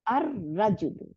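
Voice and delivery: "আর রাজুলু" with a long rolled R; doubled R. Shown as a demonstration. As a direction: hold the R in "আর রাজুলু", dropping the L of al. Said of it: "দুইটা র বানাই দিছে".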